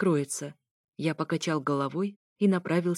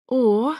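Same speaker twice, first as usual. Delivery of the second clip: loud, raised "oh" moan; 5 semitones higher, 7 dB louder than usual. A narrator's reading. Moan heard through the wall from the ex's room, loud moan. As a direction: let out a sudden loud moan. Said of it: "снова услышал я стон".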